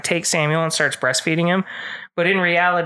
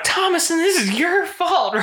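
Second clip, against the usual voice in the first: retold accusing mother; 12 semitones higher than usual. Mother blames daughter in retold film.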